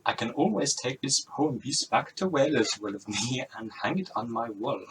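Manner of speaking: badly faked Welsh, drifting towards Indian; wobbly Welsh accent. Rob Brydon explains the quiz to Rosie, wobbly Welsh accent. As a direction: attempt Welsh and let it slip into Indian. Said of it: "Sounds a bit Indian, really".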